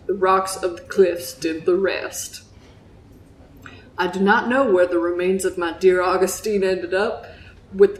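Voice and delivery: lightly voiced Southern fisherman; grave tale told in a Southern accent. Fisherman recounts losing his ship, in a Southern accent. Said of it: "that's my Southern accent".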